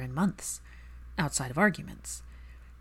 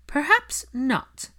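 distant; 10 semitones higher, 5 dB louder, much slower than usual. A narrator's reading. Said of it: "There was a distant quality to Narcissa's voice".

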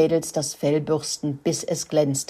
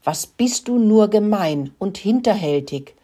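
higher, louder wounded snarl; growled; 5 semitones higher, 4 dB louder than usual. Acted. The dog Mack snarls at the pony after being kicked. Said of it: "knurrte er weiter".

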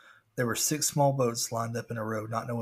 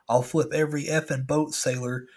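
louder, higher pirate growl of a threat; threatening pirate; 3 semitones higher, 4 dB louder than usual. Retold or imitated. Pirate animatronic hunting the narrator's boat. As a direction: menace the sailor like an angry pirate.

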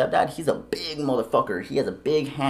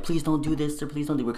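higher-pitched mock begging; imitated pleading; 5 semitones higher than usual. Wives begging the family to spare their husbands, imitated pleading. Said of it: "Their wives were pleading for them".

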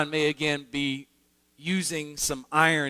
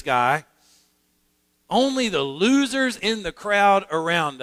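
a touch of hammed-up arrogance, a bit louder; mock the proud Pharisees bragging about themselves; smug Pharisee paraphrase; 3 semitones higher, 3 dB louder than usual. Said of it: "here's my paraphrase of their argument".

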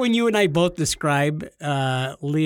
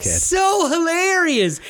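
high, slow, drawn-out delight; highly amused; 12 semitones higher, 4 dB louder, much slower than usual. Real, not acted. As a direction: stretch it out, tickled, pitched way up. Still tickled by the joke.

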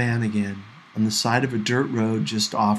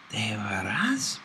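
soft slow whisper; hushed Spanish whisper; 2 semitones lower, 7 dB quieter, slower than usual. Acted. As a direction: whisper so no one wakes. Night in van, others asleep.

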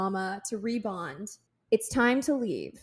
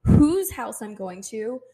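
angry demand; 5 dB louder than usual. Retold or imitated. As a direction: drag out each question, louder. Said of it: "I said".

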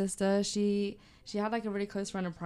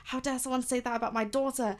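higher and louder outraged dad, retold; imitating livid dad; 5 semitones higher, 5 dB louder than usual. Dad on the phone defending his daughter, imitated outrage. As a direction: mimic a father's indignant fury. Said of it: "my dad was absolutely livid".

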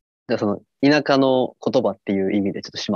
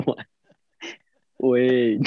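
put-on kid calling for ball; slower than usual. Shown as a demonstration. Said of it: "少年野球のボール呼ぶ声やな".

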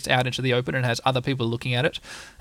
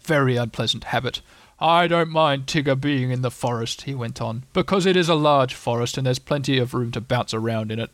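gloomy donkey voice. Acted. Eeyore grumbles at length.

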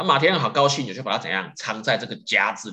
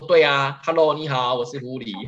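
higher, playful cheery hello as the fox lady; breezy frank admission; 4 semitones higher, 4 dB louder than usual. Retold or imitated. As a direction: own up brightly and shamelessly. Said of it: "就这少妇就竟然就坦诚欸". (俏皮坦白地打招呼)

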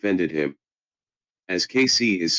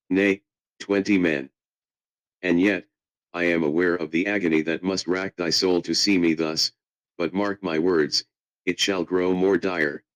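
mock olde english. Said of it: "use my Shakespearean voice poem".

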